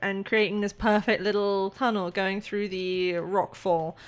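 measured, storytelling scene-setting; game master narration. Acted. Game master describes the tunnel breakthrough to player, scene-setting narration. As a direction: narrate the discovery with building suspense.

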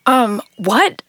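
stuffed-up nose, rising disbelief; confused, talking through a blocked nose. Acted. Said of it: "She sounded stopped up from her bloody nose".

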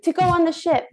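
high, gushing delight; to her flat partner, gushing about the ship; bubbly enthusiasm. Retold or imitated. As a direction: sell the trip with a beaming voice.

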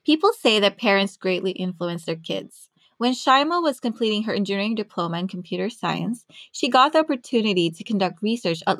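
measured, polished presenter read; scripted podcast narration. Acted. Host introducing a scientist to listeners, scripted narration.

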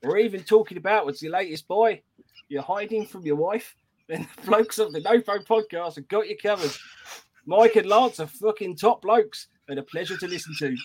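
hammed-up Aussie greeting into a review read; botched Australian accent; bad Australian accent. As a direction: read it in a shaky attempt at Australian. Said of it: "how shit he is at Australian accents".

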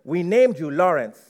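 lightly voiced old-school Nigerian mom; measured mock-motherly address; mother's voice. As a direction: read it out as a solemn, loving mother. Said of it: "I'm gonna say it to you as I heard it".

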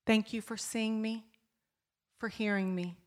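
soft, trembling prayer; hushed prayer. Retold or imitated. Woman praying to God in her car, hushed. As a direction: pray it under your breath.

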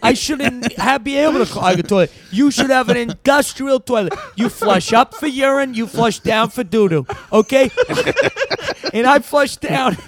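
a light put-on eccentric old actor voice; lightly voiced Dennis Hopper. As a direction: ramble like a kooky old star. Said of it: "I'll be Dennis Hopper".

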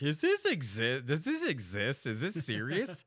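high, slow disbelief; can't believe it's real, asking it slowly; incredulous. Retold or imitated. Retelling Diwali to co-host, high slow disbelief. Incredulous quote of own reaction.

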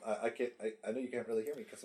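talking from far away from the mic. Real, not acted. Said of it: "you sound like you're far away".

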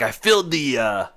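lightly imitated old Dutchman; hint of a Dutch accent, halting. Old man looks at the driver, light Dutch accent. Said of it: "that's definitely what the accent sounded like".

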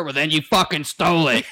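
retelling the instructor's verdict, laughing; laughing imitation.

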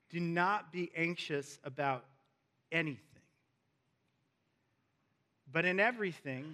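deliberate scripture reading with long pauses; slow reading. Shown as a demonstration. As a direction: read the verse slowly, phrase by phrase. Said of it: "let's read it again slowly now".

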